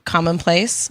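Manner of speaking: talking with a mouthful; words round a bite of food; mouth full. Real, not acted. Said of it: "Sorry, my mouth is full".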